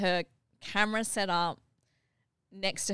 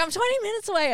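imitating Tisha; 13 semitones higher, 6 dB louder, much faster than usual. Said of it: "She's like".

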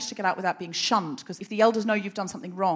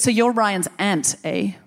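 would-be sinister Canadian; lightly put-on Canadian accent, trying for menace; mock-sinister Canadian elder; 4 dB louder, slower than usual. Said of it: "It's hard to make the Canadian accent sinister".

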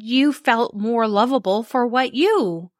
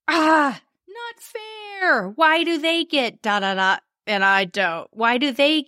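hammed-up wailing "not fair"; high tearful childish complaint; whiny crying protest; 6 semitones higher than usual. Acting out hurt child protest.

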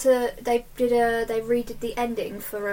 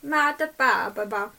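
put-on Italian accent. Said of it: "That's my Italian accent".

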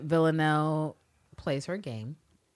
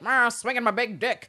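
mock swagger; 5 semitones higher, 4 dB louder than usual. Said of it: "Villanelle's just there like".

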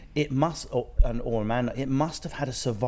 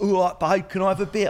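much higher, louder cheeky chat-up; chirpy Brit flirting; cheeky Englishman; 9 semitones higher, 5 dB louder than usual. Pretend. English visitor chats up an American woman, higher and louder. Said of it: "we were like".

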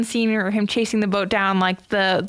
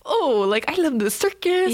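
Pennywise; 5 semitones higher than usual. Retold or imitated. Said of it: "it's still very creepy voice".

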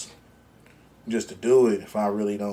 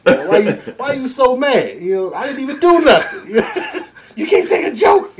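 dismissive; 8 semitones higher, 8 dB louder than usual. Retold or imitated. Acting out brushing her off.

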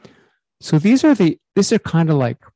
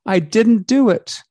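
higher, slow, amused; amused admission; 7 semitones higher, slower than usual. Real, not acted. Host amused he forgot high fidelity. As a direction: own up with a grin. Realising missed button.

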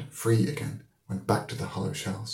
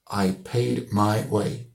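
solemnly; much slower than usual. Acted. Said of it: "he said solemnly".

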